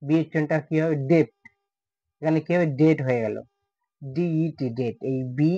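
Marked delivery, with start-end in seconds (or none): 2.8-3.0 "ডেট" with the B before T dropped; silent B. Shown as a demonstration. Teacher showing B dropped before T, "ডেট" without b. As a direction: go from vowel straight to t in "ডেট". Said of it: "বির উচ্চারণটা উঠে যাবে".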